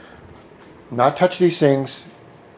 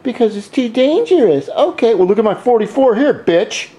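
higher, jeering dare at the cop; mocking taunt; 7 semitones higher than usual. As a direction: taunt an imagined German policeman, pitched up and cocky. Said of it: "And then I say".

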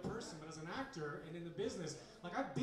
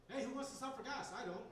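commercial line; 5 semitones higher than usual. Retold or imitated. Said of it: "I have a commercial that's been out for about a year now for Ford".

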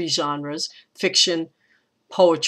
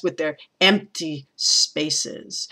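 "empty spaces" slow and weighted; slowed stressed end; much slower than usual. Shown as a demonstration. Teacher showing students how stresses slow the line. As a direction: let the stresses drag. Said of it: "it just goes really fast".

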